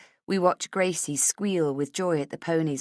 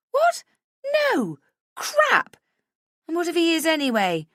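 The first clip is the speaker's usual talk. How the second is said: excited; 13 semitones higher, 6 dB louder than usual. A narrator's reading. Drunk friend reacting loudly.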